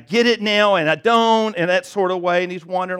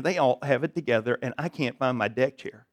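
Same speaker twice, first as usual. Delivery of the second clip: quiet inner worry; 7 semitones lower, 7 dB quieter than usual. Retold or imitated. Churchgoer thinking to himself, quiet worried aside. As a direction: lower and softer, half to yourself.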